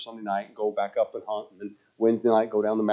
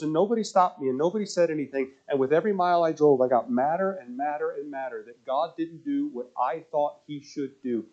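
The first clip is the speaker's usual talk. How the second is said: lightly voiced young woman, higher; a hint of a young woman's earnest plea; 5 semitones higher than usual.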